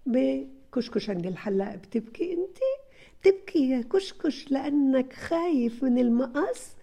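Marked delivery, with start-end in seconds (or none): 1.7-2.6 tender playful question. Shown as a demonstration. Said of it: "تقدري تحكي". 3.2-6.8 "بتبكي" asked with a gentle rising, sing-song tune; tender storytelling to child. Shown as a demonstration. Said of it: "تقدري تحكي".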